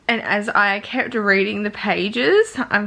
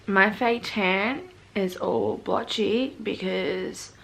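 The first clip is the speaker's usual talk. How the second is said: teary; 4 dB quieter, slower than usual. Real, not acted. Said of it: "I have been crying".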